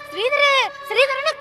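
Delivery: retold calling out. Woman re-enacting how she called her brother-in-law, mock yelling. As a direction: imitate yourself yelling out a name. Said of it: "காஞ்ச கத்து கத்துற".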